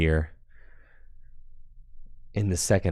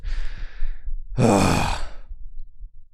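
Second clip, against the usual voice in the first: breathless sigh. Real, not acted. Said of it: "I'm out of breath".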